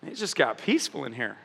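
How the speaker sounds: hushed amazed onlooker; awed hush. Pretend. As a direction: murmur it in quiet amazement. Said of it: "people take notice like".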